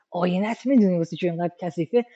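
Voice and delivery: casual quick paraphrase. Shown as a demonstration. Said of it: "مثلاً به یکی بگیم".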